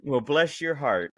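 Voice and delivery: slow, sugar-coated put-down; drawn-out mock-polite Virginia sympathy. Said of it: "the Virginia polite".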